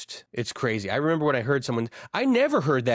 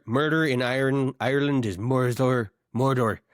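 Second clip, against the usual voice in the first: Irish murder. Shown as a demonstration. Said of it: "That's how they say murder".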